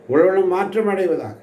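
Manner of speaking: emphatic repeat. Shown as a demonstration. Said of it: "repeated with force". (உள்ளம் என்பதை உயர்த்தி அழுத்தமாக மீண்டும் சொல்லுதல்)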